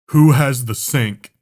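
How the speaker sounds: mock stern principal voice; imitating the vice principal's slow demand. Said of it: "that adult teacher yelling voice".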